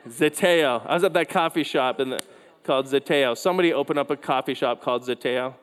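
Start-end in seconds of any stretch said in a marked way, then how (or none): 0.1-0.9 laughing correction. Real, not acted.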